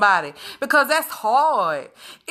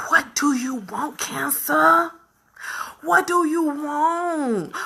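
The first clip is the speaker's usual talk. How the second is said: defiant challenge; slower than usual. Real, not acted. Addressing cancer directly.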